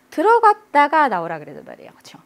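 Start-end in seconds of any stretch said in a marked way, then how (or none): none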